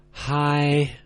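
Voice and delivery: held high and level, no slide. Shown as a demonstration. Teacher showing learners the first tone, held high and flat. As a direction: sing "high," on one flat high note. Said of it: "They are spoken as".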